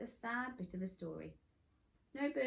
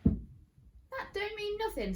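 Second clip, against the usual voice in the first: high, loud and slow, dragging every word; defiant; 13 semitones higher, 7 dB louder, much slower than usual. Acted. Polly defying Mister Gum, high and drawn out. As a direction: stand up to the villain, drawn out.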